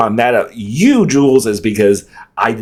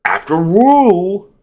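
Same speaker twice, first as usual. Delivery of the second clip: normal talking voice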